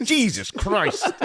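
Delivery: high, slow, laughing shock; dad recoiling, drawn out. Retold or imitated. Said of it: "My dad was like".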